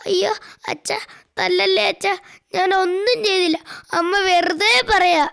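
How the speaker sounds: put-on a frightened child begging, with a mild sob; pleading child. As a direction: beg your father not to hit, half crying. Child begging father not to hit. (പേടിച്ച് കരഞ്ഞ് യാചിക്കുന്ന കുട്ടി)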